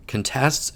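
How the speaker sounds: Contests with the weight on TESTS; Contests, second syllable stressed. Shown as a demonstration. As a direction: say Contests as a verb, con-TESTS. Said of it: "the stress changes on nouns versus verbs".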